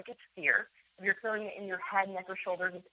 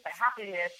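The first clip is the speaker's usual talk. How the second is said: weighed down, pressing on HAVE; heavy obligation. Shown as a demonstration. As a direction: say "have to" as a grim duty. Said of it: "a totally different energy behind".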